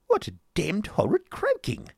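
high, startled fop; affrighted exclamation. A narrator's reading. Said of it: "turning affrighted round, exclaimed".

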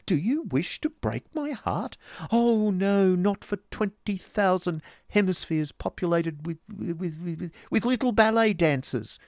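high, overwrought romantic declamation; poetical strain. A narrator's reading. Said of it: "replied Mantalini in a poetical strain".

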